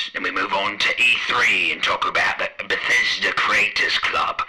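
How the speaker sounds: bartender voice through a toy megaphone; tinny megaphone host welcome. Acted. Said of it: "switch off this megaphone".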